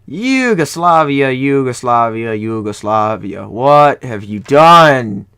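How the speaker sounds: drawn-out, slow reproach, falling in pitch; long-drawn exasperated dismay; dismayed scolding. Real, not acted. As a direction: chide them slowly, like a disappointed parent. Gamer scolds country over surprise breakup.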